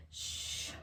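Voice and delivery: soft whispered shush; whispering shush. A narrator's reading. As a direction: hush them in a whisper. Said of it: "Mama Bear whispered".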